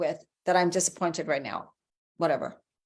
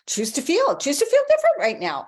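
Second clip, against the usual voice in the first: much higher and louder burst of enthusiasm; excited urging; 12 semitones higher, 5 dB louder than usual. Shown as a demonstration. Coach urging viewers to choose new feelings, excited and loud. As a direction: pump up the line like a cheer.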